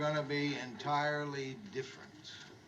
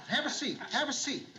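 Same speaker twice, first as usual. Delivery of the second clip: overeager host; 7 semitones higher than usual. Acted. Lou overly eager host.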